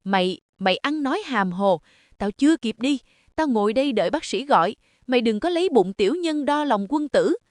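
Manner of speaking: defensive yell, pitch climbing; shouting to cover up. Acted. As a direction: caught out, mother-in-law yells back. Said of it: "gào lên lấp liếm".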